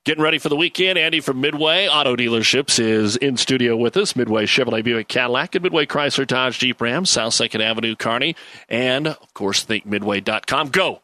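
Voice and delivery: on-air sponsor plug, projected; radio sponsor read. Acted. Host introducing Andy from Midway Auto Dealerships, radio sponsor read. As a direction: deliver it as a radio segment intro.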